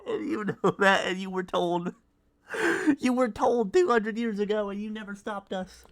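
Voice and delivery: mock villain speech. Dramatic villain-like declaration.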